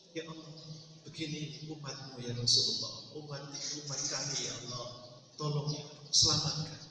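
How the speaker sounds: hushed, mildly sorrowful prayer; understated tearful plea. Retold or imitated. Preacher pleading to God for his people, understated tearful plea. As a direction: plead softly, as if grieving. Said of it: "itu nangis".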